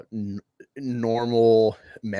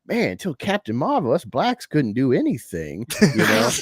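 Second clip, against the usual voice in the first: mammy voice; 2 semitones higher, 3 dB louder than usual. Acted. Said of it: "a mammy voice going on".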